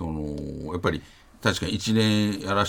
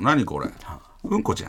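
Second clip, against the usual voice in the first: put-on stylish Tokyo kid. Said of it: "ちょっとおしゃれに聞こえた".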